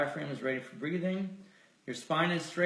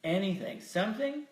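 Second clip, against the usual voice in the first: measured, softened voice with lingering pauses; guided meditation; 2 semitones lower than usual. Real, not acted. Leader inviting listeners to feel grateful, guided meditation. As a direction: let each suggestion settle before the next.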